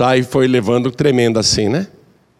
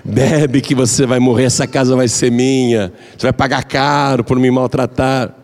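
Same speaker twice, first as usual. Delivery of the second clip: scheming inner thoughts. Acted. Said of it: "a nora pensando".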